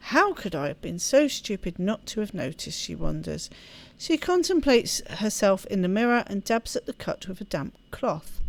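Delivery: reading the game's story aloud; storyteller reading a visual novel; story narration. Acted. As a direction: narrate the novel text evenly. Reads visual novel text aloud.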